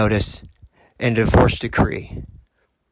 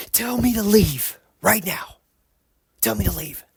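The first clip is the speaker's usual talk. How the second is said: imitating her fit; 10 semitones higher than usual. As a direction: mimic her daring him to say it. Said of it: "kinda threw a fit".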